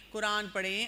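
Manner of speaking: ordinary talk, nothing marked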